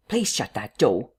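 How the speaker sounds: slow, mildly irritated request; a touch of impatience, words drawn out; mild irritation. A narrator's reading. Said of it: "said Mister Cuss irritably".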